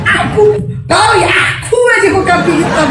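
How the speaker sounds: a hammed-up shouting protest; mock outrage. Real, not acted. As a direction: cry foul at the friend, hammed-up.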